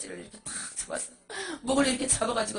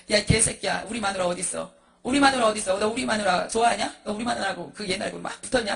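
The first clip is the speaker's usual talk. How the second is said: acted angry accusation; 4 dB louder than usual. Husband confronts pastor, accusing him.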